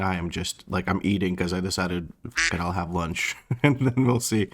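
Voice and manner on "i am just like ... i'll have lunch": words muffled by food; mouth full. Real, not acted. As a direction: talk while still chewing. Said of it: "I'm speaking with my mouth full".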